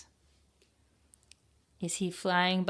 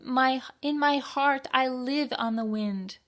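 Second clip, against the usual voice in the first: Penguin's dream; 7 semitones higher than usual. Acted. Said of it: "thought Penguin".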